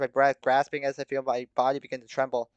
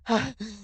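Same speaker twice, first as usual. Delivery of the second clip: high, gasping breaths; heavy panting; 10 semitones higher than usual. A narrator's reading. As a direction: pant heavily, catching breath. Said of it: "in between heavy pants and coughs".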